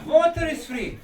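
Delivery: amused, delighted echo; laughing. Real, not acted. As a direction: laugh the words out in agreement. Echoes the guest, laughing.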